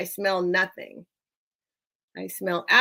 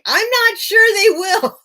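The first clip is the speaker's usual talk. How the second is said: laughing doubt; 10 semitones higher, 9 dB louder than usual. Real, not acted. Joking doubt about deaf dog.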